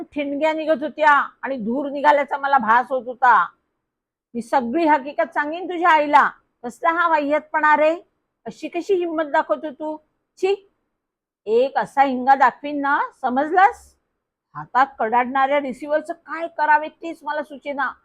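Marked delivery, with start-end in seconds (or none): 4.3-13.9 put-on an aunt scolding a rude boy, voice raised higher; furious scolding. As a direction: threaten him, seething. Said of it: "Bhavika काकी आता संतापली होती". (संतापलेल्या काकीचा रागावलेला, उंच आवाज)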